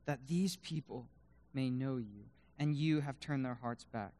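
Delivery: hushed, earnest prayer; quiet, humble plea to God; selfless prayer. Acted. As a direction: pray it softly, with pauses between phrases. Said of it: "the selfless prayer".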